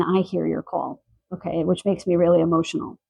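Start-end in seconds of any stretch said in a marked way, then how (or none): 0.0-1.0 softer, sincere and personal; human to human. Real, not acted. Reader speaks to viewers herself, softly and sincerely. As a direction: say it gently, person to person. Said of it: "just human to human".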